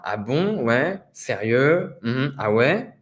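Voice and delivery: rising questioning reactions; interested listener. Shown as a demonstration. Teacher showing how to listen to a story, interested. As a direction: react with interest, each word lifting at the end. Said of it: "pour montrer que vous êtes intéressé".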